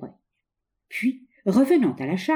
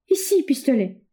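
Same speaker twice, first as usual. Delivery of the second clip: faltering voice; 6 semitones higher than usual. A narrator's reading. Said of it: "balbutia-t-elle d'une voix défaillante".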